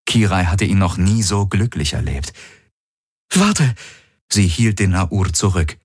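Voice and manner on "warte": high, sharp warning; sharp call to stop. A narrator's reading. Kirai holding back Hox, sharp high warning. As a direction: halt him at once.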